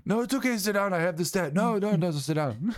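mock Trump shushing. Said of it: "imitating Trump dismissing reporter".

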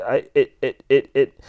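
malfunctioning robot voice, looping; damaged speech sensor. Acted. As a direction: stick on a syllable like a broken robot. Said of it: "your speech sensor's damaged".

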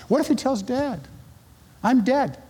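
hammed-up dread of dad finding out; mock panic. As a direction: play the scared teen in a panic. Retold inner panic.

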